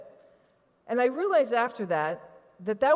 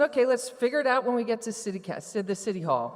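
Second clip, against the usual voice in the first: totally chill; 3 semitones higher, faster than usual. Retold or imitated. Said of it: "totally chill".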